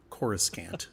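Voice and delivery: Coruscant ending in a full "scant"; original pronunciation. Shown as a demonstration. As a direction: say Coruscant as CORE-uh-SCANT, low. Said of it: "you were saying it right".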